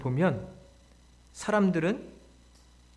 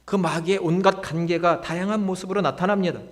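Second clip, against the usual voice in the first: ordinary delivery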